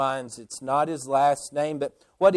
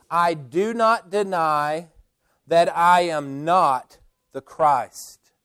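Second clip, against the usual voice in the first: measured weight on each "not"; deliberate denial, pausing before "that I am not"; emphatic denial. Retold or imitated. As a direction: stress "not" firmly, taking time over it. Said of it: "John emphatically states".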